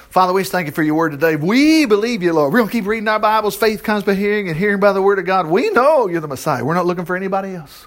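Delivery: earnest prayer, often rushed; heartfelt closing prayer. Real, not acted. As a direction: pray it to the Father, sincere and quick.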